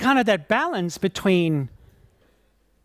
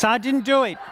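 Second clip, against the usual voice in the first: laughing mock denial; 6 semitones higher than usual. Joking denial while laughing.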